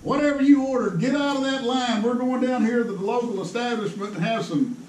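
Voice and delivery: lightly voiced Howard, pushing him to come eat; a hint of an eager old friend; Howard's eager invite. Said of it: "he goes".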